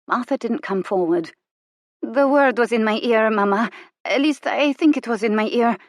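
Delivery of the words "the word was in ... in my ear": high, wondering and unsteady; puzzled girl, half afraid; surprised, tremulous. A narrator's reading. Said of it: "genuinely surprised and almost tremulous".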